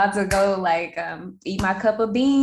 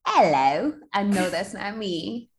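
put-on British accent. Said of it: "Who was that supposed to be?".

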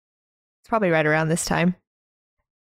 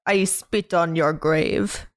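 put-on playful Russian accent read; mock Russian accent; slower than usual. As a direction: drop the Russian accent on Part Two. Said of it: "I needed to do that in a Russian accent".

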